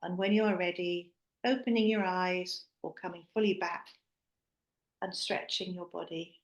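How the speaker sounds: soft, unhurried meditation guide; guided meditation close. Real, not acted. Host bringing the group back from a visualisation, guided meditation voice.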